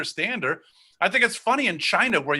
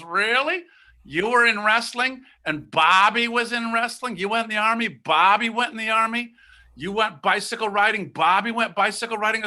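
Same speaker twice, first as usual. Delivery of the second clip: lightly pitched-up questioning mother; pointed mock disbelief; 3 semitones higher than usual. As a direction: make the case with leading questions. Mother argues that brother copies him.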